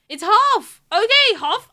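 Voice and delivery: loud, high surprised exclamation; excited. Real, not acted. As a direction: blurt it out, thrilled. Surprised at quiz answer.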